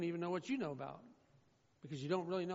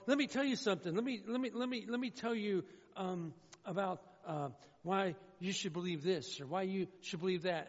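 hint of a pushy churchgoer; pushy know-it-all. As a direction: imitate someone cornering you to lecture. Pastor mimics pushy congregants.

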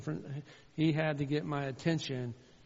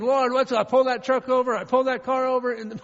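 high, loud frantic shout to God; loud retold roadside rant; exasperated yelling; 9 semitones higher, 14 dB louder than usual. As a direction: shout it upward, ending in a long drawn-out wail.

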